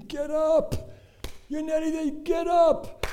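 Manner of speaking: high, loud cry urging a runner on; impassioned high-pitched yell; crowd screaming encouragement. Retold or imitated. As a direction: shout it like a desperate crowd. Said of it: "began sobbing, screaming".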